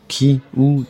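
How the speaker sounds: quick high eager questions. A narrator's reading. Barmaid, eager to spot the man outside, excited. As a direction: jump in, eager to see who. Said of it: "plus excité encore".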